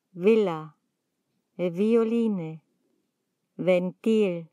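Villa, Violine, Ventil opened with a voiced "v". Shown as a demonstration. Teacher showing the second V sound, never B, voiced "v" in Villa, Violine, Ventil. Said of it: "o como V".

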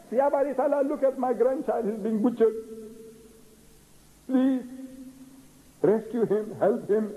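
high-pitched, urgent plea; pleading prayer. Acted. Prophet begging Allah to rescue his butchered grandchild, high pleading.

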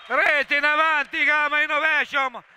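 breathless Italian goal commentary; goal call. Real, not acted. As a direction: shout the goal. Goal called out.

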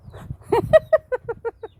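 loud, high laugh; burst of laughter. Real, not acted. Vlogger laughing at her pet, loud high laugh.

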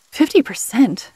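slow, scoffing disbelief; incredulous scoff, drawn out. Acted. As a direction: scoff at the number as if it's absurd. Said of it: "I scoffed".

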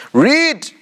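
high-pitched, forceful command; imperious angel ordering a recitation; angel's command. Acted. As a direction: call it out high and sharp, as an order. Acting angel's repeated command.

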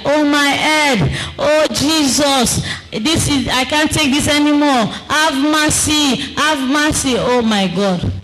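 mild mock cries of the damned begging for mercy; wailing for mercy. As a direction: plead in agony, dragging the words. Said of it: "Some will shout there".

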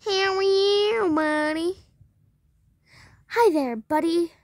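high, loud sing-song greeting to a pet; pet talk. Acted.

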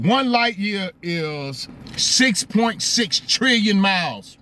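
slow, spelling out "six point six trillion"; slow careful figure. Shown as a demonstration. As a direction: lay the number down one word at a time. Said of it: "I can't, I can't say that".

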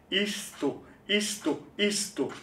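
high-pitched command, falling each time; repeated command. Acted. Reciter orders someone to sit, high repeated command.

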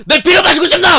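high, loud cackling mock vampire; hammed-up laughing vampire; laughing vampire taunt. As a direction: laugh through the taunt like a madman. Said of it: "엄마한테 소리를 지르고 피를 마시고 싶냐".

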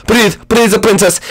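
ordinary talk, nothing marked

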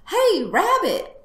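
high, loud, drawn-out call; yelled greeting through a door; yelling from outside. Acted. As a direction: holler it slowly toward the house. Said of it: "someone yelled outside".

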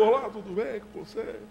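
soft, relaxed hello; calmer greeting. Shown as a demonstration. Father shows son how to greet a stern boss, calmly. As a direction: greet gently, low-key and hushed. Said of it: "mais tranquilo".

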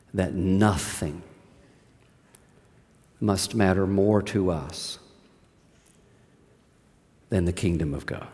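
earnest preacher driving home the point; intense hush. Real, not acted. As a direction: lean in and press it home quietly.

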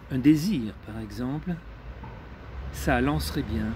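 measured poetry reading with long pauses between phrases; deliberate recital of poetic prose; literary reading. Acted. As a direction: read it out phrase by phrase, letting each pause hang. Reads a literary text aloud.

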